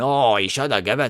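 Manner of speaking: frantic, exasperated, losing-it outburst. Retelling how Ali reacted watching the match: imitating Ali losing his mind. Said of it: "Ali's losing his goddamn mind over there going".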